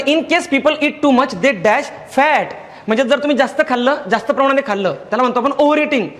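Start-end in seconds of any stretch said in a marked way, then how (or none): 0.0-2.5 very slow reading of the example; slow dictation. Shown as a demonstration. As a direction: read it slowly, word by word. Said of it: "तर बघा, त्यामध्ये".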